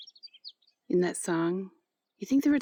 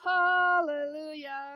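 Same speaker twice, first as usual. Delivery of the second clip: slow, drawn-out, higher hallelujah; joyful hallelujah; 5 semitones higher, much slower than usual. Real, not acted. Relieved to be out of her van, a slow joyous hallelujah. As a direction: stretch it out like a happy exclamation.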